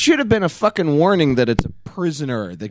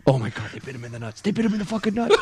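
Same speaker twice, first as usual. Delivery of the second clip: laughing disbelief; 6 dB quieter, faster than usual. Real, not acted. Narrating call, laughing.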